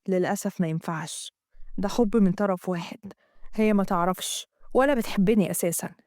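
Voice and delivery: Amgad. Acted. Amgad voiced in the story.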